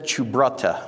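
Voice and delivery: put-on amateur Italian accent on the insult; attempted Italian accent. Film producer dismissing young actress, in attempted Italian accent. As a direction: try your best Italian accent. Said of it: "I'll try to do my best Italian accent here".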